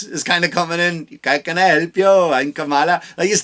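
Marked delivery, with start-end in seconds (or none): 1.2-3.0 mock call-center voice. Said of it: "customer service for fucking Verizon voice".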